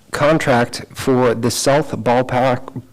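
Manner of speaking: slow, drawn-out Boston accent; Boston accent slipping out on Ballpark. Real, not acted. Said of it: "that's my Boston accent".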